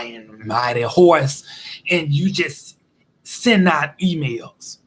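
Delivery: slow, deliberate telling-off of the boss; slow mock telling off. Employee slowly telling off the manager, deliberate mock anger. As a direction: spell out every grievance to the boss slowly. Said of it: "tell their manager exactly how they feel".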